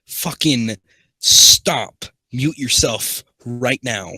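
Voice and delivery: real irritation, loud first word, then slow; annoyed order. Real, not acted. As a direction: cut them off firmly, stretching the order. Snaps at interrupting listener.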